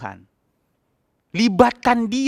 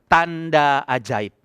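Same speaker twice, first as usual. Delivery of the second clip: "Tanda ajaib" drawn out, even slower; very slow declaration; 5 semitones lower, much slower than usual. Shown as a demonstration. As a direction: stretch out "Tanda ajaib" like a solemn proclamation. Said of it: "Ngomong itu aja". ("Tanda ajaib" diucapkan sangat pelan dan khidmat)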